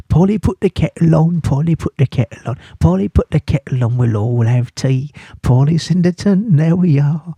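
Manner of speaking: playful sing-song rhyme; nursery-rhyme recitation. Pretend.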